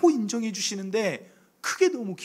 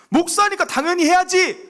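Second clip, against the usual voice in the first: higher and louder mocking scoff; dismissive people; 12 semitones higher, 7 dB louder than usual. People shrugging off the pastor's dawn prayers, scoffing. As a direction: toss it off like a cynical onlooker.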